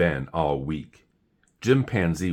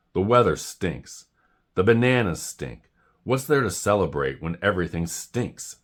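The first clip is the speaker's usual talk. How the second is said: snapping. Acted. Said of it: "snapped Jim".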